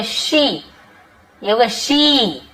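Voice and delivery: शी with a long, drawn-out "ee"; long ee sound. Shown as a demonstration. Teacher showing students the long vowel, शी drawn out. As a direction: stretch the vowel in शी, falling at the end. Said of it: "बड़ी की मात्रा".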